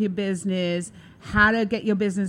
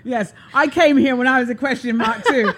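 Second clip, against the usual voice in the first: laughing; 4 semitones higher, 5 dB louder than usual. Real, not acted. Joking back, laughing.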